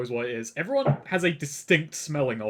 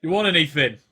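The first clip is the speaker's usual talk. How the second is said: barman yells; 2 semitones higher, 6 dB louder, faster than usual. Acted. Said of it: "and he yells".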